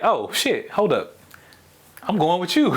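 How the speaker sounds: voicing a friend suddenly eager to come along; friend jumping in. Friend calls out to the storyteller to wait, jumping in. Friend hurrying to join the rescue.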